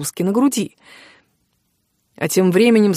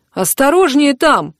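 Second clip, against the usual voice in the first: slow, higher outraged protest; indignant; 6 semitones higher, 4 dB louder, slower than usual. Acted. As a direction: protest hotly at the clumsy blow. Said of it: "возмутился Макс".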